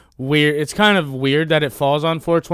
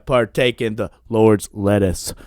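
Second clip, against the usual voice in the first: Forrest Gump; 5 dB louder, slower than usual. Retold or imitated. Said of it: "he talks like Forrest Gump".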